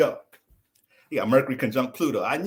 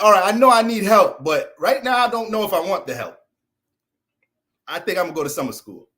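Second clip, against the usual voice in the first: loud, higher whiny student; mock student; 4 semitones higher, 7 dB louder than usual. Student tells teacher he'll take summer school, loud. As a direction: blurt it out like a fed-up kid.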